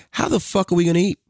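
high, fast incredulous scolding; a father scolding his son over the table; exasperated dad. Retold or imitated. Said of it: "'cause I'm talking like this now".

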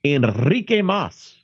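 Enrique Mas said with a Spanish flourish; Spanish accented name. Acted. Retelling a Golden Girls episode, Spanish accented name. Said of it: "there's a Golden Girls episode that has that".

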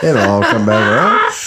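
said through a laugh. Real, not acted. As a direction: laugh while repeating the line. Repeats line while laughing.

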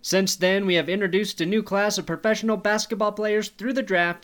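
upbeat sponsor ad read. Acted. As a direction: read it like a radio spot. Reads sponsor ad copy.

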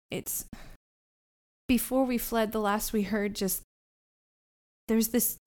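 halting, haunted witness with false starts; frightened Fleance, lightly voiced. Frightened child telling the party about the guarded page, halting and understated. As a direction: stammer lightly, searching for each phrase.

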